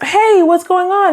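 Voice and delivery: high, drawn-out "Hey, what's going on?"; lightly acted concern; mock worried question. Acted partner asking what's wrong.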